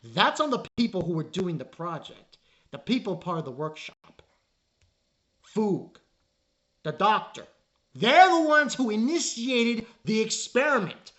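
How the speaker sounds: building to a loud exasperated yell; exasperated rant. Retold or imitated. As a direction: scold him until you snap. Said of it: "I'm like".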